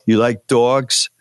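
put-on lightly done New York accent, drawn out; slow New York accent question; a touch of heavy New York vowels. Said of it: "In a heavy New York accent".

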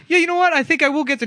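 very high, goofy customer voice; mock customer. Mocking an imagined GameStop customer, very high. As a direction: squeak it like a dopey shopper. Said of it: "Nobody's like".

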